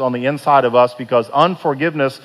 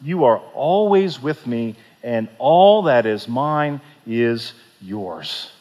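slow, gentle fatherly reassurance; tender father; 3 semitones lower, slower than usual. Acted. The father said to him.

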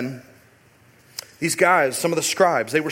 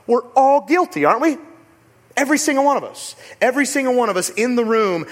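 emphatic preaching; 6 semitones higher, 4 dB louder than usual. Real, not acted. Preacher driving home shared guilt.

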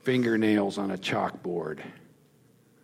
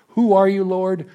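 louder, higher, calling up to God; an urgent prayer cried aloud; fervent loud plea; 8 semitones higher, 6 dB louder than usual. Shown as a demonstration. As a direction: cry it out high and loud. First take of the prayer question.

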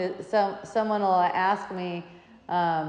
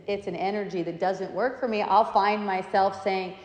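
ordinary delivery

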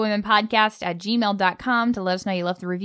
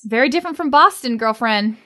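playful tease; 3 semitones higher, 5 dB louder than usual. Real, not acted. Teasing friend about Boston weather.

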